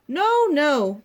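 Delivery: shouted. A narrator's reading. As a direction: shout them down. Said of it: "the others shouted".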